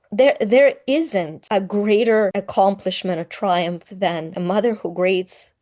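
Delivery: holding back tears, voice catching; choking up. Real, not acted. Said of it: "yeah, I'm choking up".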